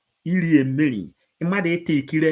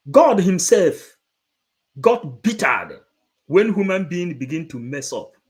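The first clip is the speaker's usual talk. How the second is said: emphatic; 3 semitones higher, 4 dB louder than usual. Real, not acted. Emphatic sermon point.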